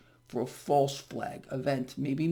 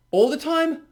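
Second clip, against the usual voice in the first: mock question; 10 semitones higher, 8 dB louder than usual. Real, not acted. Rhetorical question to viewers.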